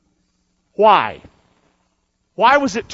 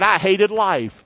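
slow scripture reading; slower than usual. Acted. Reads scripture quote slowly.

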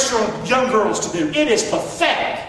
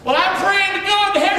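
lightly voiced young girl, raised in pitch; girl quoted by the preacher, pleading lightly; 9 semitones higher than usual. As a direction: play the girl asking for help, a bit high. Girl voiced praying for help.

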